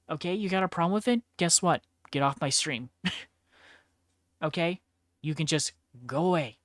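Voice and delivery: loud fast defiant challenge. Real, not acted. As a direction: tell the haters off. Telling off haters.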